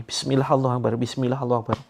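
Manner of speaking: barked loud, easing a bit on the repeat; snapping out loud. Shown as a demonstration. Healer demonstrates snapping at the jinn, loud command. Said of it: "Bentak ya".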